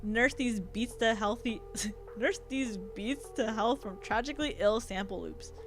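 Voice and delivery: put-on lightly done Valley Girl accent. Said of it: "I already gave him a Valley Girl accent".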